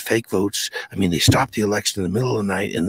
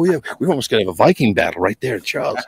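retold threat; 4 semitones higher, 4 dB louder than usual. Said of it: "I go".

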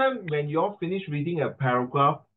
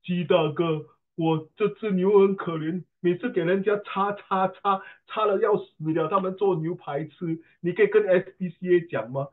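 pleading bull. Retold or imitated. Teacher voicing a bull begging him to call the SPCA, mock pitiful. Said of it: "the bull come and tell me".

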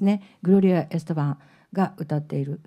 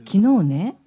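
louder 昨日ね, then a long pause; held-back suspense; 5 dB louder than usual. Shown as a demonstration. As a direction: say 昨日ね and leave it hanging. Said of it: "っていうふうに貯めるんだって".

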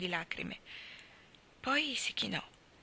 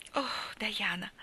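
exclaimed; much slower than usual. A narrator's reading. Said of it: "esclamò Anna".

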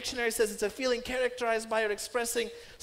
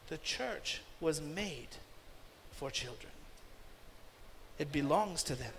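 quiet emphasis; 7 semitones lower, 9 dB quieter than usual. Real, not acted.

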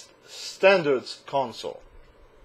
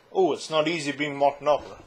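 a singer's voice; 3 dB quieter than usual. Acted. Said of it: "How do people talk with that voice".

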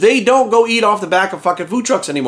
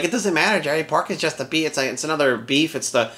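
softer, dismissive mock voice; mocking quote; 2 semitones lower, 4 dB quieter than usual. Mocking the critics who say pork is just protein, softer sneering voice. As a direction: brush it off like a smug know-it-all. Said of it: "The I F whammers will be like".

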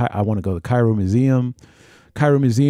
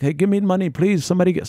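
imitated beggar; 8 semitones higher than usual. Beggars pestering at pyramid.

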